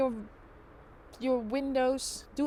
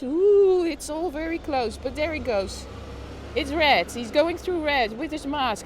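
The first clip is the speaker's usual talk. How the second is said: louder race-call building to touchdown; play-by-play commentary; 4 dB louder than usual. Acted. Streamer calls the courier crossing on red, building commentary. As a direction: call the run like a final play. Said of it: "Play by play of a food truck".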